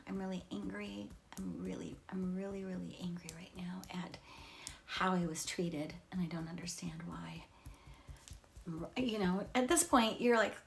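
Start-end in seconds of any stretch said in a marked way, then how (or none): 0.1-7.5 hushed anger. Shown as a demonstration. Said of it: "demonstrates tapping, voicing anger".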